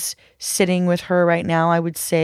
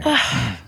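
shaky sigh; 6 semitones lower than usual. Real, not acted. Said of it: "I'm trying not to cry".

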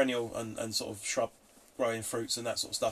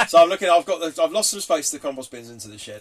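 laughing; 6 semitones higher, 13 dB louder than usual. Real, not acted. Laughing at own slip.

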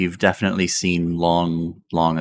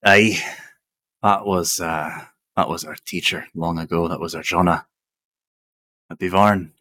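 dwarf voice. Acted. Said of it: "the dwarf goes".

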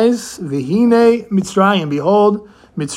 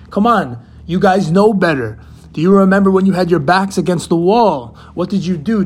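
Moshe scolding. Retold or imitated. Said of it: "what was Moshe thinking".

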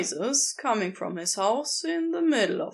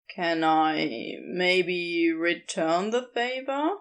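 lower, slow and tentative; soft shy ask; 6 semitones lower, slower than usual. Acted. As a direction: ask shyly, almost hoping. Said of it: "a tone much softer".

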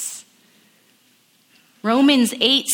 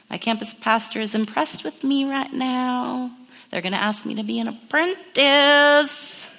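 smug self-talk; 2 semitones higher than usual. Retold or imitated. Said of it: "Maybe you have that voice".

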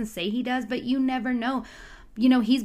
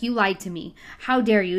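mock outburst building to a louder "How dare you?"; imitating angry Delilah; 4 dB louder than usual. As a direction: play Delilah going off on him, half-acted. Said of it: "going off on him".

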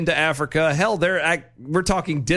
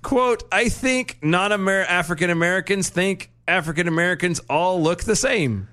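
a slightly raised reading voice; put-on quoting voice; 4 semitones higher than usual. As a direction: voice the quote as a character. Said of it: "but that's the voice".

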